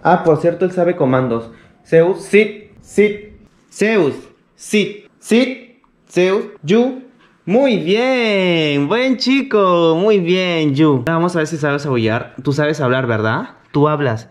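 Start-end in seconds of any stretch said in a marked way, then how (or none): 1.8-10.7 high coaxing pet voice; talking to a dog. Real, not acted. Commanding his dog Zeus.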